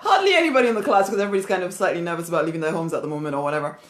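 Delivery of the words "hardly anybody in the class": fast, laughing repeat; rushed laughing aside. Real, not acted. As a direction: giggle through the words, amused.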